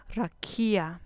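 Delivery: "rakia" with KI stressed; stress on penultimate syllable. Shown as a demonstration. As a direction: say "rakia" as ra-KI-a, falling at the end. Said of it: "con acento en la penúltima sílaba". ("rakia" con el acento en "ki")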